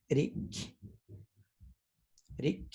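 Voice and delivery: Zapotec word said twice with pauses. Shown as a demonstration. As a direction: model each word and pause for repeats. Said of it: "So here we go".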